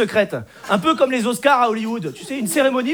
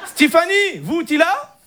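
put-on high, eager comic Arab accent; hopeful chat-up in a North African accent; Hicham; 5 semitones higher, slower than usual. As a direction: call her in a broad Moroccan accent. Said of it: "l'accent arabe".

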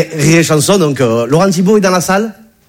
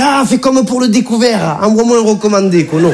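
cheeky retort; 5 semitones higher than usual. Retold or imitated. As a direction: tease the banker back, unhurried. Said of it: "j'ai fait".

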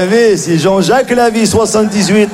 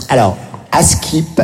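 put-on young girl quote; 4 semitones lower, slower than usual. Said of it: "Elle commence une anecdote par".

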